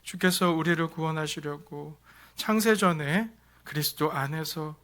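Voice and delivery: steady, reverent prayer voice. Acted. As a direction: lead the congregation in prayer. Pastor leads closing prayer. (경건한 기도 목소리)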